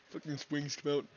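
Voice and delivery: words squeezed out mid-laugh; laughing through words. Real, not acted. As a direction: still giggling as you say it.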